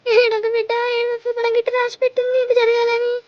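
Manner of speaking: sing-song weeping consolation; tearful comforting. Acted. Mother tells the child it was fated, tearful comforting. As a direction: soothe the child through your own crying.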